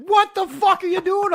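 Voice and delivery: high, loud disbelieving yell; buddy yelling as the spreader hits the lake; shocked buddy. Retold or imitated. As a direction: shout it in total disbelief at a friend. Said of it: "He's like".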